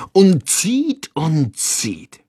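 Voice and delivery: drawn-out, effortful narration; narrated strain, tailing off. A narrator's reading. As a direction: pull along with the voice on each verb.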